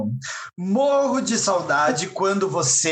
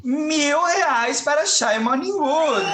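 laughing announcement; 5 semitones higher, slower than usual. Acted. Host announces prize amid laughter.

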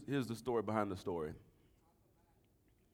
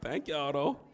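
grinning disbelief; 3 semitones higher, 4 dB louder, much slower than usual. Retold or imitated. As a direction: imitate a delighted, can't-believe-it buyer. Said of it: "I was grinning like".

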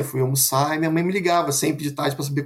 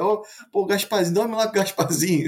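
higher-pitched playful mockery; teasing dad; 4 semitones higher than usual. Dad mocking his scared son at bedtime, teasing. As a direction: imitate a dad winding up his kid. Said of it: "Aí começou a zoar, aí meu pai começou a brincar".

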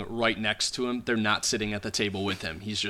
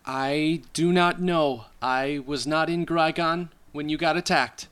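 higher, deliberate character voice; failed whisper; 6 semitones higher than usual. Acted. Informant denying being in Grygon, badly failed whisper. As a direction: spell it out far too audibly. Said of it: "not by any means whispering".

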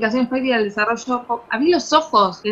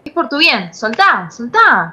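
insistent; 4 dB louder, slower than usual. Acted. Sisters fighting over suitcase.

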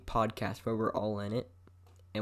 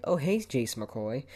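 mimicked greeter; 3 semitones higher, slower than usual. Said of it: "They're like".

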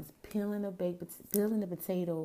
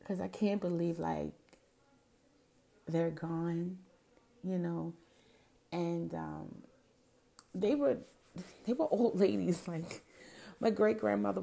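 tearing up; 3 dB louder than usual. Real, not acted. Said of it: "I'm tearing up".

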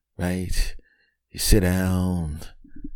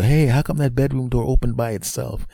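higher-pitched imitation of puzzlement; puzzled family member; 7 semitones higher than usual. Family noticing the door move, puzzled higher voice. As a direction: raise the pitch, call out the question. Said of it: "they're gonna go".

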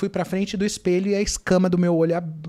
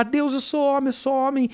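retold shouting; 5 semitones higher than usual. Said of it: "Comecei a gritar".

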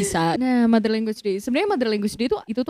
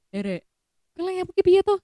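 scolding parent; 7 semitones higher than usual. Retold or imitated. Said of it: "misal kamu nyapu tapi nggak bersih".

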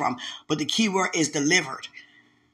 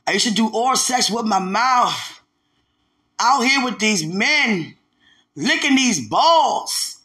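high, drawn-out, emphatic confession; blunt testimony; 4 semitones higher, 4 dB louder, slower than usual. Retold or imitated. Woman testifying to the church exactly as it was, blunt. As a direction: stretch each phrase out boldly, pitch climbing. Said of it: "it's a little blunt, but that's how she said it".

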